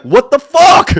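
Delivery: loud, high-pitched disbelief; exasperated outburst. Real, not acted. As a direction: burst out in comic exasperation. Exasperated at people wearing masks.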